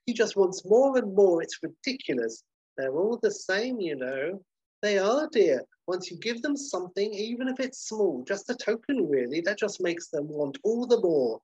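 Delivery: put-on high, swooping gossipy old lady; second old lady. Old lady agreeing with her friend, high swooping indignation. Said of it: "old lady number two is like".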